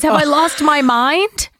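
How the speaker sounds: high, slow fretful question; imitating a dazed, anxious woman; worried hiker. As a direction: fear she's losing it. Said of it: "And she goes".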